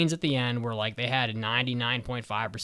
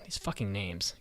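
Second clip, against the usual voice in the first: muttered aside; 6 semitones lower, 9 dB quieter than usual. Real, not acted. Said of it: "whisper to self".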